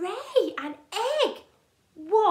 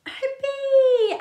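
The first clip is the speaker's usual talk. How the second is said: surprised; 10 semitones higher, 8 dB louder than usual. Acted. Startled at a bee.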